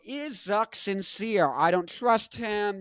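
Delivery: lightly mimicked suspicion; mock doubters. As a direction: drag it out as a doubting crowd. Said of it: "And people go".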